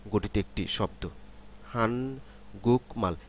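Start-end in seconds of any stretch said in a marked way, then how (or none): 1.7-3.1 "হান গুকমাল" with k kept in "গুক"; written-form "হান গুকমাল", k before m; syllables as written. Shown as a demonstration. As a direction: say "হান গুকমাল" evenly, the k not yet changed to a nasal. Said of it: "তিন সিলেবলের সমন্বয়ে".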